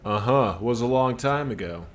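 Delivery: a dockworker puffed up and defensive; gruff union worker. Acted. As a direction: bark it out like a worker standing his ground. Worker character again.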